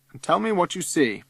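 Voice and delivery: high, lively teacher's call. A narrator's reading. Teacher asking his class to look, calling out. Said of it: "cries Sir".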